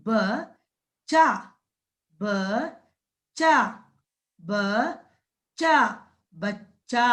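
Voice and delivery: ब and चा split, then joined as बच्चा; syllable by syllable. Shown as a demonstration. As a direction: sound out बच्चा for the class. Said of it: "बा को जोड़ेंगे".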